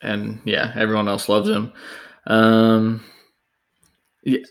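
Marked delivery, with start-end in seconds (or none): 2.2-4.4 cracking, unsteady voice. Real, not acted. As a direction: voice keeps cracking. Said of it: "I am so sorry for my voice cracking tonight".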